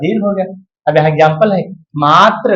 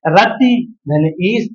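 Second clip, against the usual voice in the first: very slow, word by word; patient drawn-out breakdown; slow dictation; much slower than usual. Shown as a demonstration. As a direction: lay out each piece slowly. Teacher slowly splitting a sandhi.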